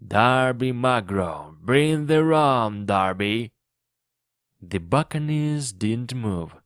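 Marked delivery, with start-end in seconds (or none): 0.0-3.5 distant call. A narrator's reading. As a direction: keep calling the name across the woods. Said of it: "it shouted from far away".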